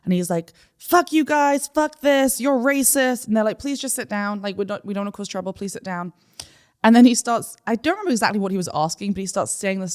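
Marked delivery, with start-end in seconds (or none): 0.8-3.3 higher-pitched mock angry rant; hammed-up indignant outburst; aggressive man, retold. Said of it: "being aggressive with the women". 3.6-6.1 softer, placating staff voice; patient pleading, retold. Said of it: "They're being very good about it".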